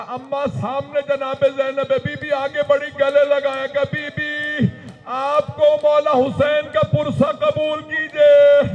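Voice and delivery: high, loud mourning recitation; grieving sermon at full force; impassioned preaching. Acted. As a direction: cry it out to the gathering. Preached climax of story.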